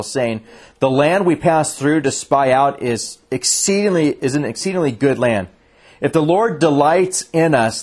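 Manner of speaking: measured, deliberate Bible reading; scripture reading. Acted. Reads scripture aloud.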